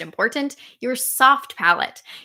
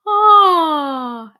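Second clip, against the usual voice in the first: louder, higher yawn-like ah; pre-yawn inhale ah; 6 semitones higher, 6 dB louder than usual. Shown as a demonstration. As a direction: breathe in as if about to yawn. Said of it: "thinking about a pre-yawn".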